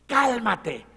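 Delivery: loud order to the sea; stern command. Acted. Jesus ordering the sea, loud stern command. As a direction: command the waves to be still. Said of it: "le da una orden al mar".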